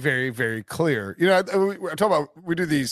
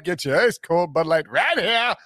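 stadium vendor hawking; 3 semitones higher than usual. Retold or imitated. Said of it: "beer vendor yelling about ice-cold Bud Light".

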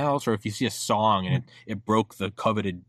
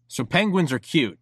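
higher-pitched imitation of himself starting a rant; mock rant opener; 5 semitones higher, 3 dB louder than usual. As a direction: launch a mock lecture, slightly raised. Host imitates his own rant openings.

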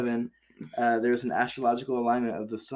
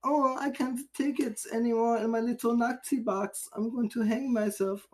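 much higher, whiny mock voice of an old man; mock old Nazi; 12 semitones higher than usual. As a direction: ham up a pitiful old prisoner. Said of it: "Nazi ass was like".

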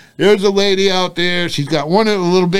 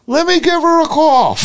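mock helpful man; 11 semitones higher than usual. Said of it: "He goes".

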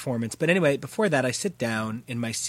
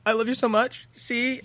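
higher, gushing adoration; giddy fan; 8 semitones higher than usual. Retold or imitated. Teen showing a singer her CD, giddy and high. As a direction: hold up the CD and squeal it out.

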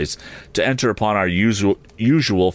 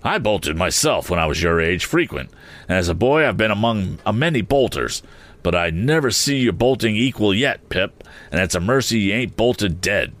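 mouth full; 2 semitones higher than usual. Acted. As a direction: bite in his cheek. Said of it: "with his bite still in his cheek".

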